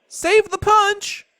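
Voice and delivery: loud, high, slow yell; old woman's urgent yell, high and loud. A narrator's reading. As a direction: bellow it out over the rain. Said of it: "Gloria Dump yelled to me".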